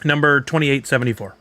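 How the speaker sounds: crunching chips. Real, not acted. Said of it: "Sorry for the crunching in the mic".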